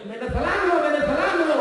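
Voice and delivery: a heckler's hammed-up shout of the insult; mock yell. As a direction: jeer it out like a heckler. Inda yelling at the man.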